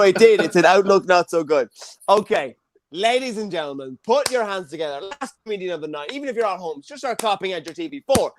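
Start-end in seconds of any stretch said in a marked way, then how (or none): 2.1-8.3 comedy host's introduction; stage announcer. Real, not acted. Host calling the audience to clap for the next comedian, announcer style. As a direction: bring the act on like an MC.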